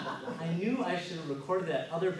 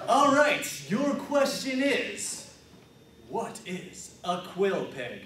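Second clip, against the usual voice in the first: Alex Trebek; slower than usual. Acted. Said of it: "I'm Alex Trebek".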